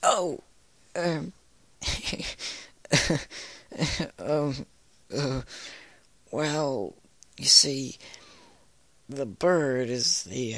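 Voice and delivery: high nervous laugh, loud blurts; flustered mare stalling with laughs; nervous laughing Applejack. A narrator's reading.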